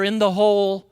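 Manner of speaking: "the" leaned on in "in the hole"; stress on THE. Shown as a demonstration. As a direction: press the definite article "the". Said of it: "those definite articles are important".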